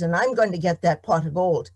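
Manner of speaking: a farmer who has lost his patience; angry farmer. Acted. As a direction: seize him and bark it out. Tom shaking the leprechaun.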